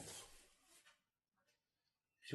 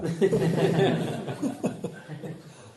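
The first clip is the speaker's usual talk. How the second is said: rire franc, haut et fort; éclat de rire; 7 semitones higher, 7 dB louder than usual. Real, not acted. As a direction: rire bruyant en racontant. Rit en racontant. (grand éclat de rire)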